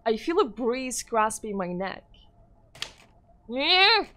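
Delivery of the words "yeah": monstrous shout. Acted. Ghost attacks with a scream.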